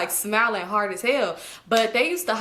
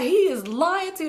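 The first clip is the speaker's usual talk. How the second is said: slow mock; 6 semitones higher, slower than usual. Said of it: "They like".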